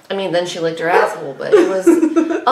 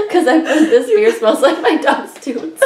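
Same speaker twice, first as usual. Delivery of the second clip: laughing; 4 semitones higher than usual. Real, not acted. Laughing while retelling review.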